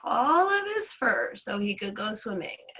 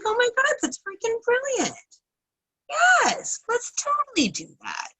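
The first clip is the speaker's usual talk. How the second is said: thrilled villagers; 5 dB louder than usual. Retold or imitated. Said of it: "And they're like".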